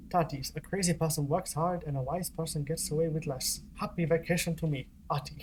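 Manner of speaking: lightly put-on Finnish accent, reading Ahti's postcard; a hint of a Finnish accent as a playful Ahti impression; reading the postcard aloud in a mild mock Finnish accent; bad Finnish accent. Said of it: "my terrible Finnish accent and my awful Ahti impression".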